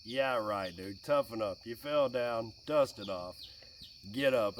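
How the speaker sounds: low, unconcerned dad talk; tough dad. Retold or imitated. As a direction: brush off a boy's fall. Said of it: "To our little boys, we're just like".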